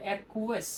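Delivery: অ্যাকুয়াস said slowly as "a-kyu-as", each syllable clear; correct pronunciation. Shown as a demonstration. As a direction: spell out অ্যাকুয়াস carefully as a-kyu-as. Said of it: "এই ওয়ার্ডের উচ্চারণটা হবে এরকম ভাবে". (অ্যাকুয়াস শব্দের সঠিক উচ্চারণ, ধীরে ও স্পষ্ট)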